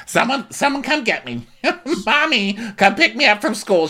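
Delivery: high-pitched mock plea to be rescued; mock scared kid. Imitating Gina's inner plea to escape. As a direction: whine like a kid wanting out.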